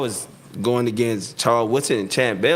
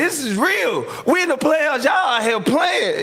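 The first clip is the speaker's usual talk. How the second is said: retold yell; 14 semitones higher, slower than usual. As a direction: yell at the team to take it seriously. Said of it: "I was yelling".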